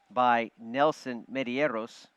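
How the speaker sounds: put-on slow Spanish-accented name. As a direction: roll the name in Spanish style. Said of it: "Like that Spanish accent?".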